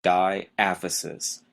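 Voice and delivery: Diaphysis, slowly, die-AF-uh-sis; second-syllable stress. Shown as a demonstration. Teacher models a hard term for students, second-syllable stress. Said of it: "Notice the stress is on the second syllable".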